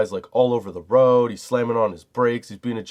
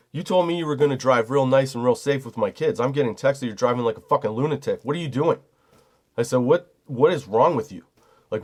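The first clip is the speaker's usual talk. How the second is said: firm, heated telling-off, raised a bit; retold angry confrontation; 2 semitones higher than usual. Dad confronting ex's friend over unsafe driving, mildly heated. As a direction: chew out the reckless driver, half-performed. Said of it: "I was pissed".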